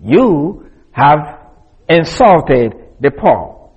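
"you" held long and emphatic, then a measured phrase; stress on YOU. Shown as a demonstration. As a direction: lean on "you", then continue slowly. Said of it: "If you remember how I read it".

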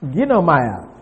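Ginomai said as gi-no-mai, stress on gi; Greek pronunciation. Shown as a demonstration. Teacher modelling the Greek Ginomai for the class. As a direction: sound out Ginomai clearly. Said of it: "G I N O M A I".

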